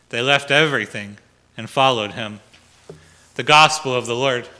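measured, formal liturgical reading; solemn lector reading aloud; gospel reading. Acted. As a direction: proclaim the text to the congregation. Reads the gospel at Mass.

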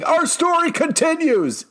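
high, booming mock announcer call; hammed-up Helmet of Fate yelling. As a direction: boom it out like a pompous comic narrator. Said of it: "the Helmet of Fate just yelling".

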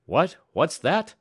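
high, loud, eager questions; startled cry. A narrator's reading. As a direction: cry out, demanding to hear it. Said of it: "cried the superintendent".

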